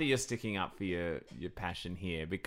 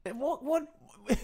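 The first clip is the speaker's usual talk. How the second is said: laughing disbelief. Real, not acted.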